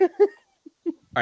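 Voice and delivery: laughing through the words; giggling all right. Real, not acted.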